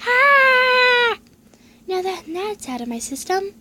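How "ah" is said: high scared cry; shaky stammering panic. Real, not acted. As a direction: wail it out in terror. Panicked cast reaction.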